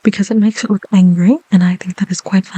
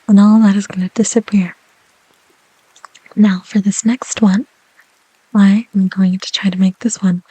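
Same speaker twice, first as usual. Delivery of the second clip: whisper. Real, not acted. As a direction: breathe the words gently. ASMR whisper.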